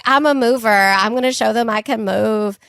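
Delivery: hint of a Southern accent, hammed up; lightly voiced Southern accent, retelling an audition. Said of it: "I used a Southern accent".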